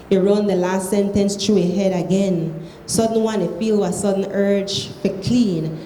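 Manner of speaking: reading aloud in Krio; Sierra Leone Creole. Shown as a demonstration. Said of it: "read it in Creole".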